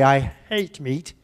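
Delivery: put-on a touch of a French accent, "hate" said slowly; mock accent. Teacher mimics French students with a slow, light French accent. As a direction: imitate the learner, slowly. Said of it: "my French students say".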